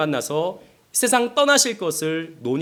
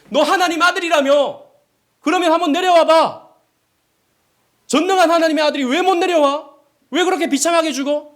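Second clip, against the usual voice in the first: higher and louder jeering with a laugh; mocking crowd; 8 semitones higher, 5 dB louder than usual. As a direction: sneer up at the man on the cross. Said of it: "이렇게 예수님을 조롱합니다".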